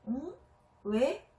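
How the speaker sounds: loud, distracted reply while busy chopping; hurried. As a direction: answer without looking up, rushed. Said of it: "서둘러 채소를 썰면서". (채소 썰며 바쁜 엄마, 건성 대답)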